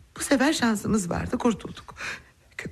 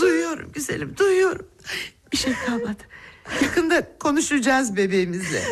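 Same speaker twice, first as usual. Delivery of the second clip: higher, half-crying, half-laughing; tearful joy; 4 semitones higher than usual. Acted. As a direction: laugh through tears. Mother hears daughter speak.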